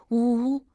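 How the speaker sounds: put-on a child's wail, drawn out; sobbing boo-hoo. A narrator's reading. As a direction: fake little-boy sobs. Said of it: "哭着说".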